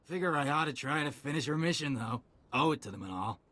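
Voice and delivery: tipsy, halting soldier's ramble; drunk. Acted. Soldier telling a stranger of the lost squad, drunk. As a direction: ramble through it like someone a few drinks in. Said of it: "You smell like you've had a few too many drinks".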